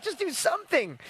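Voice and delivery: a light nod to the laid-back actor; Matthew McConaughey impression. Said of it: "And he's like".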